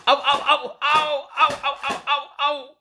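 sehr hohe, laute Schmerzensschreie. Acted. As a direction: jaule bei jedem Hieb auf. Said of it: "Der Wirt schrie zum Erbarmen". (der verprügelte Wirt schreit vor Schmerz laut auf)

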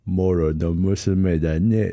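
put-on very slow, drawn-out old boar god; Okkotonushi voice. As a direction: stretch each word like an ancient god. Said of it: "おっことぬしのモノマネしたんですけど".

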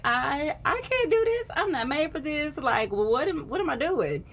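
distressed. Retold or imitated. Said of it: "I was like".

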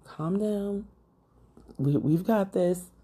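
soft reassurance, lightly acted; imitated calming mother. Mom soothing her panicking daughter, calming. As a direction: gently talk someone down. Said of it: "My mom's like, you know, "Calm down".

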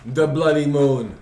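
slow, drawn-out mocking echo; mocking imitation. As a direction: drag it out to mock his speech. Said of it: "That's what you really talk".

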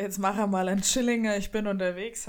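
casual Franconian-Bavarian dialect; easygoing Bavarian regional speech. Retold or imitated. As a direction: repeat your own dialect voice message. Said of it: "zu deinen Dialektausfällen".

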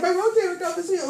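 high, loud mimicked exclamation; acted-out amazed delight; excited announcement. Imitates girl announcing her healing.

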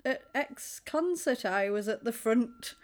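lightly sarcastic retold boast; a bit sarcastic. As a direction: imitate a mildly sarcastic name-dropper. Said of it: "says it a little bit sarcastically".

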